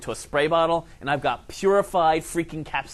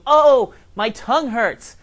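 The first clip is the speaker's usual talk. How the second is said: high squeaky squirrel whine, much louder; 9 semitones higher, 10 dB louder, slower than usual. Pretend. Squirrel after biting a peppered tomato, high squeaky mock whine. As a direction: play a pained little squirrel. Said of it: "he'll go".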